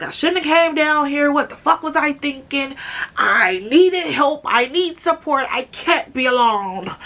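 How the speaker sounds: hammed-up helpless lament; overdramatic mock bawling. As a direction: play up a hysterical phone meltdown, half-joking. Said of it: "I'm over dramatic as fuck on the phone".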